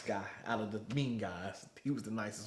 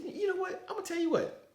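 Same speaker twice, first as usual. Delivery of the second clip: higher, louder mock drill instructor, half laughing; 6 dB louder than usual. Teller imitates drill instructor punishing recruit, hammed up. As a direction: ham up the sergeant's punishment. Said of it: "He said".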